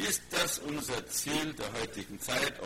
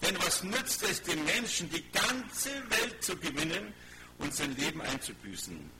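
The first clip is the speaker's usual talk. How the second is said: emphatic Bible reading, raised then settling; preacher reading scripture aloud with weight; 5 semitones higher, 4 dB louder than usual. Acted. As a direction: proclaim the verse to a congregation, easing down at the end. Reads scripture aloud to congregation.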